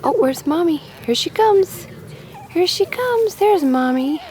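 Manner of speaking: very high, loud squealing. Real, not acted. Excited baby talk.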